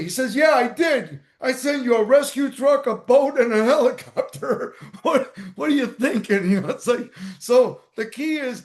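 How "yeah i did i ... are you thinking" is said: voice of God. Retold or imitated. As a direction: play God half laughing at his foolishness. God answers the drowned man.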